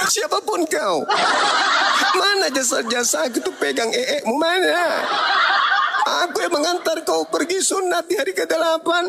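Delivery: high, laughing mother voice, nagging; a mother counting every favour she did; scolding mother. Acted. Mother reminding her son of changing him, high and scolding.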